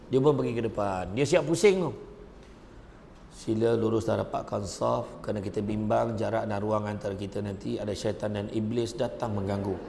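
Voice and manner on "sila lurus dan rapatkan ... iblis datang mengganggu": put-on boy imam. Boy imam addresses the rows, acted.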